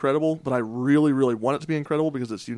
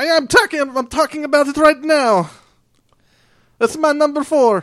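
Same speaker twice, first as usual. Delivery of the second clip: Italian accent, much higher and louder; 9 dB louder than usual. Presenting his number four game pick to the group, in an italian accent. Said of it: "Why did you go Italian?".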